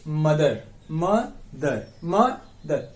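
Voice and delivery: मदर broken into म and दर; split into syllables. Shown as a demonstration. Teacher shows students the parts of मदर, syllable by syllable. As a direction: say मदर as two parts, म, then दर. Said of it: "मदर को बोल के बताइए".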